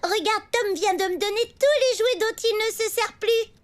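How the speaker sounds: put-on sugary innocent child; fake sweet. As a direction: play the angel for the aunt. Sweet act in front of aunt. (faussement mielleux)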